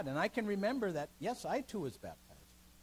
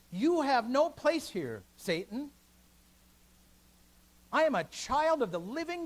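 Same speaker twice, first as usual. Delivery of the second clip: defiant proclamation; 6 semitones higher, 8 dB louder than usual. Retold or imitated. Luther defying Satan, quoted.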